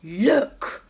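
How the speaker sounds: high, loud urgent cry; father's alarmed shout at the fur ball. Acted. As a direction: call her to look, alarmed. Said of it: "said Father".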